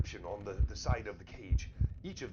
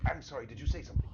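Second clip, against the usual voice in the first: distracted scholar voice; 5 semitones higher, faster than usual. GM voices Ixon.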